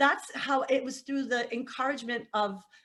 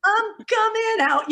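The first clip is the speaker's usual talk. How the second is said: spooky ghost voice; 11 semitones higher, 8 dB louder, slower than usual. Retold or imitated. Spirits voiced coming out closet.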